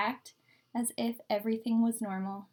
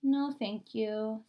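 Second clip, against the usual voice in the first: sighed reply; much slower than usual. Acted. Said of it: "sighed Camila".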